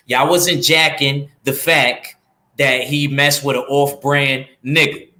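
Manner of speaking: slow, leaned-in New York accent; slow New York street accent. Shown as a demonstration. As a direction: say it like a New Yorker would, drawn out. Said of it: "let me say it in my New York accent".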